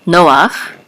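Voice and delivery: "Noach" stressed on NO; first-syllable stress. Shown as a demonstration. Teacher shows the accent mark, "Noach" stressed at the start. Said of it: "the accent is on the first syllable".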